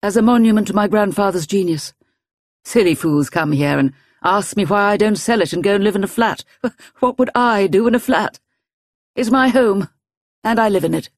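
a hint of a sharp old woman; old lady voice. Old lady voices her home.

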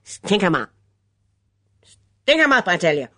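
hoarse, nasal film-gangster bark; loud command, building on the repeat; barked order. A narrator's reading. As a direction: bark it like a cinema hold-up man. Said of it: "the voice barked".

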